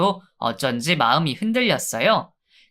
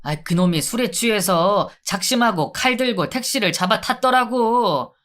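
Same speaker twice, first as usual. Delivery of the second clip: higher, whining convict begging; pleading inmate; 4 semitones higher than usual. Acted. Inmate begging the guard from the punishment cell, higher and whiny. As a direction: beg to be let out, whimpering.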